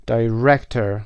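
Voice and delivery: "Director" as die-REC-tor, middle stressed; stress on middle syllable. Shown as a demonstration. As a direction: put the weight on -rec- in "Director". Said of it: "قسمت وسط".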